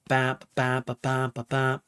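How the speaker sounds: short punchy bap syllables, slow; vocalizing full bass notes; full bass imitation. Shown as a demonstration. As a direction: sing a full bass hit with your mouth. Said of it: "sound like it's doing, like, a full".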